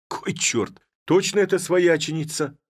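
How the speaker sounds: hushed oath, then a high, loud cry of disbelief; astonished outburst. Acted. Village head seeing his sister-in-law, an astonished high cry. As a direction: gasp the curse, then shoot up in astonishment.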